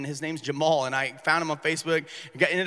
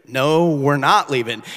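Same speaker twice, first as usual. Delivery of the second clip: defiant refusal; 13 dB louder, slower than usual. Retold or imitated. Standoff with drug dealers.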